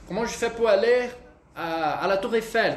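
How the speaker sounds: careful French Comment je fais pour aller à la Tour Eiffel; French demo. Shown as a demonstration. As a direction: ask the way in French. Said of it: "E aí ele vai".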